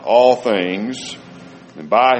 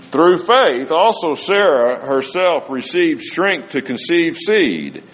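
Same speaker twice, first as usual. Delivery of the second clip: slow, raised solemn reading of scripture; 7 semitones higher, slower than usual. Acted. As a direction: read the verse out with reverence.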